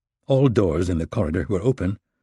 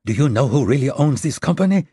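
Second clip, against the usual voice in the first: incredulous; 6 semitones higher, 4 dB louder than usual. Acted. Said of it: "Raisa said incredulously".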